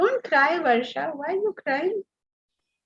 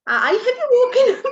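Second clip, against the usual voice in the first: coaxing wake-up; 11 semitones higher, 7 dB louder than usual. Retold or imitated. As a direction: stretch it out sweetly to rouse him. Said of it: "In like".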